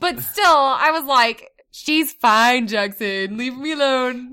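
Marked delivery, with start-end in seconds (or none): 1.7-4.3 loud brush-off; dismissive. Retold or imitated. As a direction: shoo him away. Dismissive mom retold.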